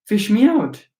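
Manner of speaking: put-on high strained boy's cry; desperate boy. A narrator's reading. Drowning boy begging to be pulled out, high and desperate. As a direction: squeal it out desperate.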